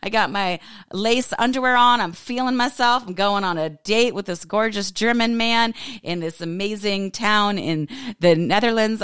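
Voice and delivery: high, indignant inner monologue; exasperated inner voice. Retold or imitated. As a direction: play up the sass of a ruined date. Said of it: "part of me was like".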